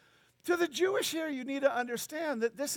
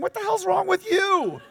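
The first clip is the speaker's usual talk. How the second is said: higher, louder, laughing at the absurdity; laughing outburst; 9 semitones higher, 6 dB louder than usual. Acted. Preacher mocking his own impatience, laughing loudly. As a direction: blurt it out through a laugh. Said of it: "I'm saying".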